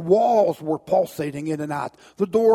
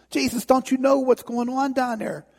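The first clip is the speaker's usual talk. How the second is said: distraught man pleading; 6 semitones higher than usual. Acted. Distraught man appeals to Jesus.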